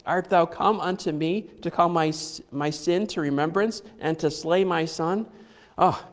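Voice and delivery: derisive. Retold or imitated. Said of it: "She is being derisive".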